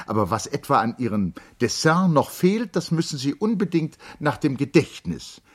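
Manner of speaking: high, loud, rushed farewell; politely shooing her out; hurried lady. Acted. Charlotte hurriedly dismisses painter. (eilige Dame, hoch und laut)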